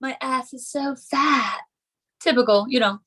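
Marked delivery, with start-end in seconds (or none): 0.0-1.6 lightly mocking Valley-girl voice, last line drawn out slowly. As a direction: do a hint of a ditzy Valley girl. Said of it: "like, typical Valley girl stuff".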